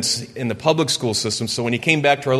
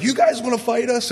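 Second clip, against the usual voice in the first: taunting; 11 semitones higher than usual. Retold or imitated. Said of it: "And he's like".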